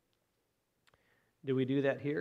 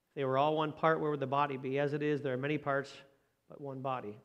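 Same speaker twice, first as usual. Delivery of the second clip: scripture reading. Acted. Pastor reading about the body to the church, firm proclamation.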